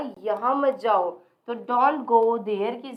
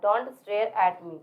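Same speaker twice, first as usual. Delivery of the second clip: stare at me dragged very slowly; slow modelling; 4 semitones lower, much slower than usual. Shown as a demonstration. Teacher slowly modelling stare at me for the class. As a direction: draw each word out for learners. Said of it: "teacher models English slowly".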